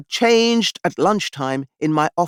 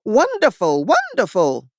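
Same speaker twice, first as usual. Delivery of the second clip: enthusiastic; 3 semitones higher than usual. Acted. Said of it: "the voice from the stalls was enthusiastic".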